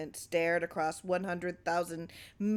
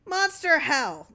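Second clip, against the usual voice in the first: much higher, louder, slowed rage; furious outburst; 9 semitones higher, 7 dB louder, slower than usual. Acted. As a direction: bark it out in fury. Clarence raging.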